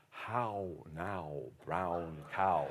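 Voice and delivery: plummy upper-class English accent, lightly done; mock royal elocution drill in a posh English accent; Prince Charles. Shown as a demonstration. Speaker jokingly practises elocution each morning, light posh English accent. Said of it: "I'm trying to sound like Prince Charles".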